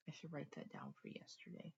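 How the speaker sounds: whispered aside. Real, not acted. Vlogger whispering a reminder to herself about yesterday, whispered aside.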